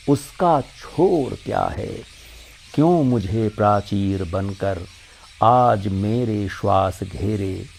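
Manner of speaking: measured Hindi verse recital, lines set apart by pauses; poem recitation. Acted. Recites Mahadevi Verma's poem.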